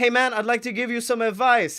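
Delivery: put-on gangster-style British accent. Retelling a man's line from a video: imitating a gangster British accent. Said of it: "that gangster British accent".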